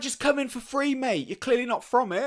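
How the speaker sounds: a high, lightly voiced friendly local; imitating the gym staff. Gym staff offering a free session, lightly imitated friendly voice. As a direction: play the kind gym guy waving him in. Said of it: "They're like".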